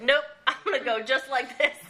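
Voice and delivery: laughing through a cheeky refusal; flippant, giggling reply; a laugh breaking through the words. Retold or imitated. Retelling her flippant reply.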